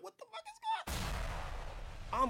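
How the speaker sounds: very high, slow disbelieving cry; hammed-up confusion; mock disbelief. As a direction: stretch it out, baffled. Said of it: "I'm like".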